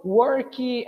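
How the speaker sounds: "worky" drawn out, ending in ee; slow "worky" with an extra ee syllable; added final vowel. Shown as a demonstration. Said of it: "this beautiful I that appears in the end".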